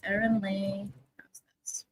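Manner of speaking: unvoiced, very soft whisper. Real, not acted. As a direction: breathe it out in a whisper. Whispering while editing name.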